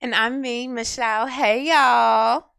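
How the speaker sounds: high, loud bubbly greeting; excited greeting. Real, not acted. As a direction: greet the crowd with energy. Co-host's hyped greeting.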